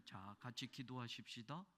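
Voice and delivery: hushed mock pastor voice; soft-spoken pastor. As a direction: imitate a quiet, measured preacher. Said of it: "목사님이 설교도 조곤조곤".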